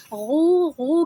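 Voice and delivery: "غو" as a drawn-out voiced gargle; gargling sound. Shown as a demonstration. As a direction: imitate gargling water on "غو". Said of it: "غرارے کرتے ہیں". ("غو" غرارے کی سی آواز)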